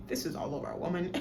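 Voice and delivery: suppressed laugh. Retold or imitated. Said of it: "more like a".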